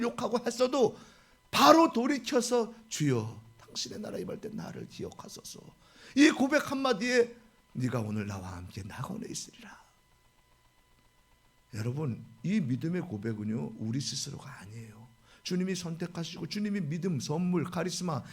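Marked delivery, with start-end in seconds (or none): 2.9-5.6 whispered, much lower and softer; hushed plea. Retold or imitated. Thief's whispered confession. 7.7-9.8 hushed and much softer, tender; whispered promise. Retold or imitated. 11.7-15.0 dropped to a soft whisper. Real, not acted. Preacher drops to whisper.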